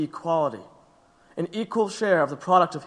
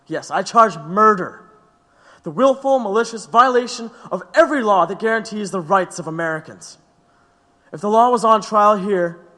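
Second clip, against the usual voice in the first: defiant accusation; 3 semitones higher, 5 dB louder than usual. Acted. Defendant's defiant speech to court.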